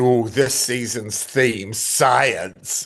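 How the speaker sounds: mocking sarcastic drawl, very slow and drawn out. Retelling what he said in their little trailer: imitating a sarcastic remark. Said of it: "he sort of sarcastically says".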